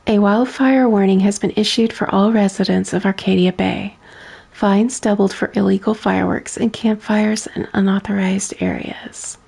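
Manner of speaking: even, measured news-read delivery; newspaper read. Acted. Streamer reading a game newspaper to chat, plain news read. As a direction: read the headlines like a local reporter. Reads game bulletin aloud.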